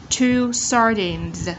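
slow "Two sardines" with buzzed final Z; Z ending sound. Shown as a demonstration. Teacher modelling ending sounds, slow and buzzed. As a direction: draw out "sardines" to its voiced Z. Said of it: "Z ending sound".

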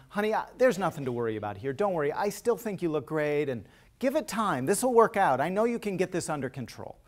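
mildly insistent, well-meant comforting; sweet reassurance. Retold or imitated. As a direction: voice a partner trying to soothe away worry. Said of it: "it sounds kind of sweet".

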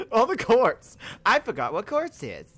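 high loud laugh through words; laughing loudly. Real, not acted. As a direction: laugh at yourself. Laughs at forgetting word.

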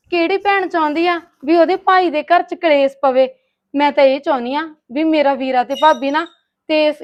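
loud, hurt plea on the verge of sobbing; tearful pleading. Acted. Sister-in-law answers accusation of stirring up quarrels, tearful pleading. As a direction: plead your innocence loudly, close to tears. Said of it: "ਹੁਣ ਡੁਸੂ ਡੁਸੂ ਜੇ ਕੀ ਕਰਦੀ ਆ".

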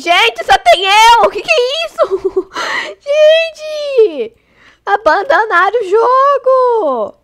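high, loud disbelieving cry; shocked shriek. Real, not acted. To her viewers, finding herself alone in the lobby, shocked shriek. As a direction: squeal it out like everyone just left you. Replay of being left alone.

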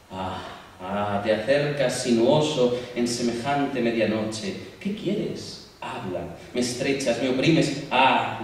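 tormented lover crying out to an unknown god; Ariadna's lament. Acted. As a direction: pour out the lament, torn between pain and longing. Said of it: "Habla ella".

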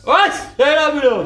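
giggly high repeat; laughing tipsy. Acted.

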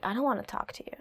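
soft unvoiced whisper; silent treatment whisper. Shown as a demonstration. Arguing partner breaking the silent treatment, in a whisper. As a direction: whisper it, refusing to engage. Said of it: "then you're just like".

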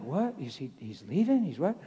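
mock bewildered questions, pitch swooping up; baffled nurses. Nurses react to husband suddenly leaving, imitated bafflement. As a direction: imitate disbelief with rising question ends. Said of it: "And they're like".

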